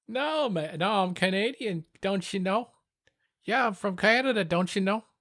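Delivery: high, hammed-up Canadian accent; mock Canadian accent.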